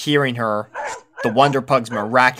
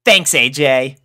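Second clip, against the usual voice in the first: confidently; 3 semitones higher, 6 dB louder than usual. A narrator's reading. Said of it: "replied Rainbow confidently".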